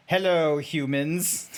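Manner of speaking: stilted greeting breaking into a laugh; amused, half-held character greeting; robotic zebra, not straight-faced. Acted. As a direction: start the zebra voice while fighting giggles. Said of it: "let me try and do this as straight-faced as possible".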